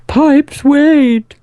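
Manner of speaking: high, loud pompous mayor call. Acted. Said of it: "in the mayor's voice".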